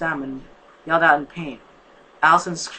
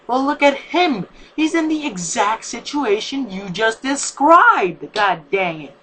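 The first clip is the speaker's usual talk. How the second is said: much higher, louder, slow indignant protest; defensive; 7 semitones higher, 7 dB louder, slower than usual. Acted. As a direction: push back hard in his defense. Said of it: "said in defense".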